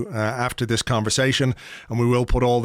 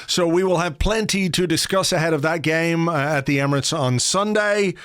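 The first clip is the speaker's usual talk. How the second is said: upbeat presenter read with lifted pitch; podcast sign-off; 5 semitones higher than usual. Real, not acted. Host wraps up the show for listeners, presenter read. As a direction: announce the links and thanks in a presenter's lilt.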